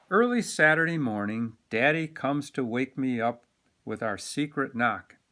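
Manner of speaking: animated picture-book narration; reading to children. A narrator's reading. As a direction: read it like storytime for kids.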